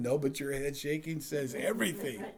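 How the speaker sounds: scolding through laughter; wife, laughing. Retold or imitated. Wife telling husband to stop, laughing. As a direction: tell him off while laughing. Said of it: "she's like".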